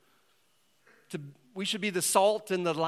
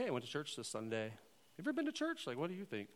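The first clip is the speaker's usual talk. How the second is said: loving way; 10 dB quieter, faster than usual. Pretend. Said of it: "you can do that in just a loving way".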